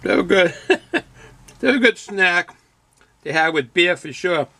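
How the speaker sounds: talking while chewing chips; crunching chips. Real, not acted. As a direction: mouth full of crunchy snack. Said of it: "Excuse my crunching, my chomping".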